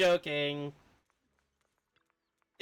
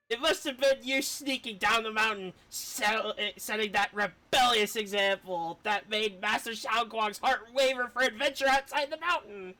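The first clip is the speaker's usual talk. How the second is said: a hint of a stern elder chiding, slightly raised; lightly voiced scolding elder; 5 semitones higher than usual. Streamer voicing an elder scolding a troublemaker, mildly stern. Reads character dialogue aloud.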